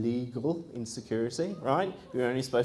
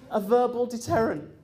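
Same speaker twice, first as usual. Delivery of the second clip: higher, louder scornful repeat; mocking echo; 10 semitones higher, 4 dB louder than usual. Echoing the trainer's excuse, high and mocking.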